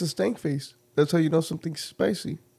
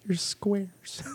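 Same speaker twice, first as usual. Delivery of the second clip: whispered tease; 3 semitones higher, 5 dB quieter than usual. Real, not acted. Teasing aside.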